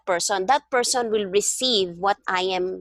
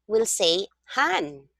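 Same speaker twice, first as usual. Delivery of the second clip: han said slowly and leaned on; slow down and land on han; teacher contrasting han against hin; stress on han; slower than usual. Shown as a demonstration. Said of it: "instead of hin".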